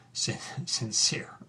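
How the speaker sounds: sincere breathed out in a mocking whisper after a laugh; bitter laugh then hushed sincere; scornful echo. Real, not acted. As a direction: whisper sincere back with contempt. Scornful echo of committee word.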